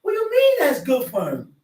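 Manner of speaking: preacher shouting down a cruel attitude; indignant outcry. Real, not acted. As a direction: demand an answer, incredulous. Preacher rebuking callous laughter.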